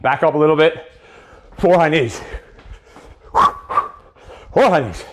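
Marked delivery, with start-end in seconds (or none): 3.3-5.0 slow it right down for them to see; very slow demo. Shown as a demonstration. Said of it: "In the air so you can see it".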